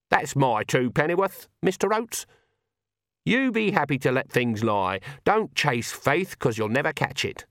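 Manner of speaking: a touch of finality in Granny's voice; firm Granny. Acted. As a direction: wrap up the lecture with blunt advice. Granny concludes her argument.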